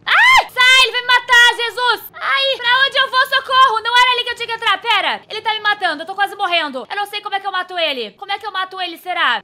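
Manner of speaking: high panicked screaming; being chased. Real, not acted. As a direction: scream for help. Monster killing her.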